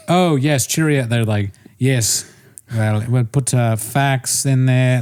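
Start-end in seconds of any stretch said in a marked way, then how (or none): 0.1-1.0 mock British writers; British accent. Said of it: "They're British people". 1.8-5.0 mock British writer reciting slang; stiffly polite put-on British; British accent. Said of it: "but in a British voice".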